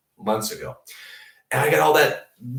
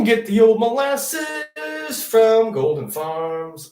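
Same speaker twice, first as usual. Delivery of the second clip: high, slow hammed-up commercial announcer; drawn-out pitchman read; mock ad voice; 9 semitones higher, 4 dB louder, much slower than usual. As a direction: sell it like an old TV ad, slowly.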